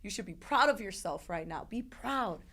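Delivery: mildly emphatic mock pep talk; imitating hype-up praise. Staff hyping up a patient afterwards, mock encouragement. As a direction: push the praise with heavy emphasis. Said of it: "hype you up".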